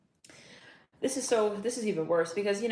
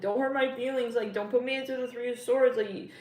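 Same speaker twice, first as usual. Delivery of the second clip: mock angry plea; 5 semitones higher, 6 dB louder than usual. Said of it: "kinda getting angry and stuff".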